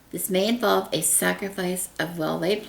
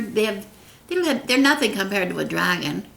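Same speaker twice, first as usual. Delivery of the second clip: ordinary talk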